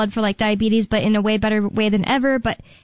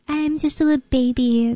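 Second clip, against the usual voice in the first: put-on baby voice; 2 semitones higher than usual. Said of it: "type of voice".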